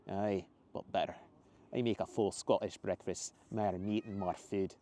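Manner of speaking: hearty Scottish man; slow, proud Scottish brogue; Scottish accent. Acted. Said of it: "the man shouted, laughing again".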